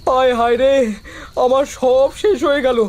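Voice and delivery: wailing despair over a loss; tearful lament. Acted. Farmer mourning his ruined eggplant field, tearful lament. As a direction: lament as if close to tears. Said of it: "আর কাঁদিস না".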